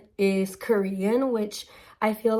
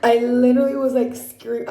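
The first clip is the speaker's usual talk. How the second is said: excited shout; 3 semitones higher, 6 dB louder than usual. Real, not acted. Excited gushing about friend's romance.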